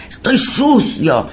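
high, slow, anguished lament; mock possessed wailing. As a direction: imitate a tormented soul crying out. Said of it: "Aldo gritando esas barbaridades, diciendo".

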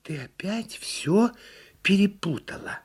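high, slow turtle reproach; measured turtle scolding; correcting turtle. A narrator's reading. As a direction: correct patiently as a little turtle, word by word. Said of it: "поправила её черепаха".

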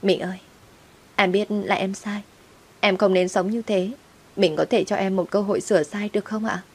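pleading. Acted. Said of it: "vẫn nài nỉ ở lại".

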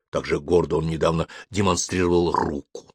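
ordinary delivery

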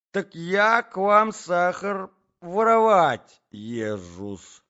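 high, loud scandalized accusation; outraged quarrel voice, high and loud; indignant Natalya. A narrator's reading. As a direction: fling the charge with stretched, stressed words.

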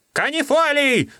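very high, held call; desperate high cry; crying out a name. Acted. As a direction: call his name in alarm. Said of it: "закричал Гольга".

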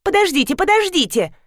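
high, squealing rapid plea; high squeaky voice chattering; shrill chatter. A narrator's reading. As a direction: squeal it out like a frantic girl. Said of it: "застрекотал визгливый голос".

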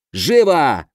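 mild shout to hurry someone; sharp command. A narrator's reading. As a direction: snap it out as an order. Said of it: "прикрикнул".

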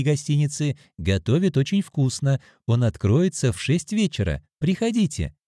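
a hint of a chatty hotel clerk; receptionist.

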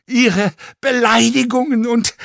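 high, strained croaking protest; croaked scream. A narrator's reading. Actor protests at his insulter, croaked shouting. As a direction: force out a shout that cracks into a croak. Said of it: "nur als ein seltsames Krächzen".

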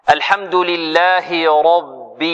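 slow, measured recitation of الحمد لله رب; slow tajweed recitation; Quran recitation. Shown as a demonstration. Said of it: "recites Fatiha slowly as model".

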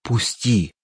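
strained groan pinned to the floor; groaning plea. A narrator's reading. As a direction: groan it out under his weight. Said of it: "Клапос простонал".

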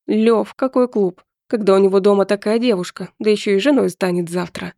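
light, cheerful retort. Acted. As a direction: say it with a grin. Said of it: "весело ответил Пашка".

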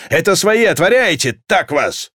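high, impatient shouting; exasperated soldier calling through a door; corporal's yell. A narrator's reading. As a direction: holler to be let in. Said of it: "орал капрал".

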